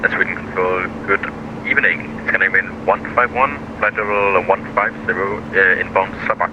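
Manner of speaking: over a pilot headset. Real, not acted. Pilot radio readback.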